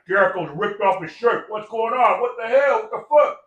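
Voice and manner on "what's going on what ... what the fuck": high-pitched mock alarm, rising in pitch; acted dismay. Jericho reacts to the nation's defeat, acted dismay. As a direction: voice their bewildered outcry, pitched up.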